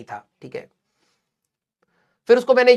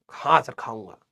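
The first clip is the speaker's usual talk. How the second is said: put-on lower, softer sheepish kid's yes; mock the kid eagerly accepting food; meek student reply; 10 semitones lower, 8 dB quieter than usual. Student answers teacher's offer.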